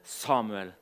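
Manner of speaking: measured Bible reading with pauses; solemn storytelling from scripture. A narrator's reading. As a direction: read the passage aloud to a congregation, phrase by phrase. Reads Bible passage aloud to congregation.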